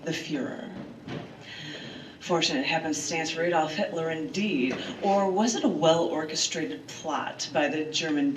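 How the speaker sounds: measured storyteller reading of history; earnest essay read to friends; dramatic essay reading. Acted. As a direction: read it like a documentary narrator. Reads her dramatic essay aloud.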